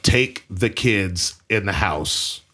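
low, slow retold command, word by word; slow, deliberate order. Dad repeating himself to Christina after her "What?", slow and deliberate. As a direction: spell it out slowly and firmly.

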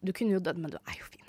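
low murmur fading almost to a whisper; understated reassurance. Retold or imitated. Dad who survived shocks himself reassuring his child, hushed and understated. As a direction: imitate dad shrugging it off under his breath.

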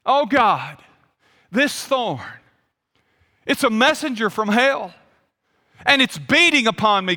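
acting out a plea to God; mildly hammed-up petition with pauses for weight; imagined earnest prayer. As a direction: press the complaint in deliberate, separate phrases. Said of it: "it might have gone something like this".

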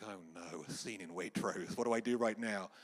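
acted-out inward dismay, starting low; a sinking, lightly comic 'oh no'; mild dismay. Missionary facing a scene in Waitrose, mildly dismayed.

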